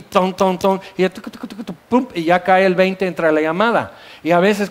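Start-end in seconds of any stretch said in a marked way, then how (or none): 0.0-3.1 knocking sounds ton ton, tucu tucu, pum; imitated payphone knocks. Shown as a demonstration. Preacher mimics knocking a payphone to drop the coin. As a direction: tap out the payphone noises with the mouth. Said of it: "tenías que hacerle así".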